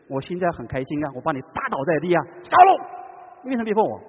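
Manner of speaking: a gloating victor mocking Saul. Shown as a demonstration. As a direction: taunt a beaten enemy with glee. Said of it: "但是耶稣不是这样".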